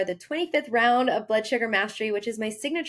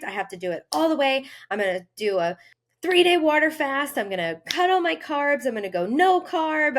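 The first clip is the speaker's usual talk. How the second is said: pushy, louder all-or-nothing resolve; intense overachiever; 2 semitones higher, 4 dB louder, faster than usual. Retold or imitated. Coach voicing a fight-state client, louder and driven. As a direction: rattle off the plan like nothing can stop you.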